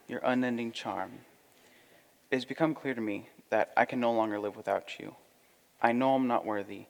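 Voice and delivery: soft, earnest suitor; humble, tender proposal; rehearsing a proposal. Acted. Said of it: "I want to practice my proposal".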